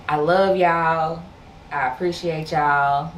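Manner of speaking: real emotion, voice trembling; shaky voice. Real, not acted. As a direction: voice shaking with emotion. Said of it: "Y'all hear my voice shaking 'cause I'm getting emotional".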